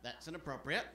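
understated, soft and low objection; mildly angry. Acted. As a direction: act a very restrained San Francisco anger. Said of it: "someone from San Francisco getting angry".

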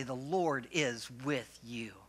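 slow, sincere, with conviction; like you mean it. Shown as a demonstration. Pastor modelling the reply for the congregation, slow and heartfelt. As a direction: say it slowly and mean every word. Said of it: "you gotta say it like you mean it".

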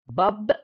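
باب said alone as one clear syllable; isolated syllable. Shown as a demonstration. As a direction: cut باب off as a separate chunk. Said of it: "أدي مقطع". (باب كمقطع منفصل)

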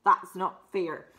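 loud "hang on", then a slow complaint; indignant protest. Acted. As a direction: object loudly to the unfairness. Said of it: "Sorry, she's saying".

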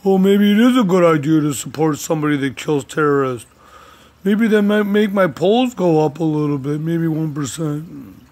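mock politician musing, put-on voice; mocking Trump. Vlogger mocking Trump's inner thoughts, put-on voice. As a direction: sneer it as Trump thinking aloud. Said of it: "and we're like".

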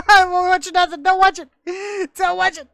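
high, loud put-on voice; hammed-up high yell; mock shout. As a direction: yell it in a silly high voice, slowing down.

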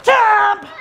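loud biting monster shout; monster chomp. Acted. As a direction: snap it like a monster bite.

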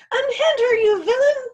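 very high, loud outraged scream. A narrator's reading. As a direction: scream at the villain, full force. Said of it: "the bone screamed".

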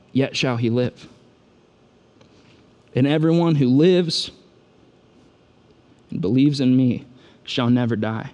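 measured, hushed assurance with long pauses; real calm. Acted. Jesus aside with grieving Martha, calmly reassuring her. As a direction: say it gently and deliberately, phrase by phrase. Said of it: "real calmly to her".

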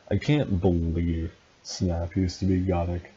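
hammed-up disbelief, lightly done; mildly surprised. Vampire reacting to Snap's gothic past, mildly surprised. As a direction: act a touch incredulous. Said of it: "Vampire asked surprisingly".

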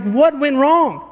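high, slow, puzzled question; bewildered. Pretend. A reader stunned by Peter's fall, high and slow. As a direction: ask it baffled and let it hang. Imagined reader reaction, Mark 14.

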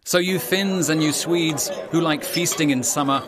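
put-on rhyming storyteller's read to young listeners; story narration. A narrator's reading. Narrator reading a rhyming crayfish tale, storytelling voice. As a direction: tell the rhyme like a children's tale.

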